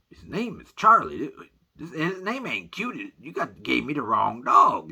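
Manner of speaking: high, loud, disbelieving objection; acted-out indignant disbelief; alarmed protest. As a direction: protest loudly that there's been a mistake. Protests he got the wrong dog.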